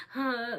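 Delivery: short, effortful "huh"; a small puff of pushing effort; restrained pushing breath. Shown as a demonstration. Mother showing how she pushed without screaming, restrained grunt. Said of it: "I was just kind of like".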